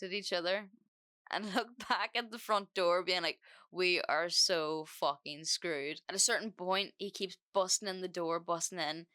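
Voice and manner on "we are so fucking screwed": slow, weighted words; slow dread. Retold or imitated. Siblings looking at the front door, slow dread. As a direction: spell out the doom word by word.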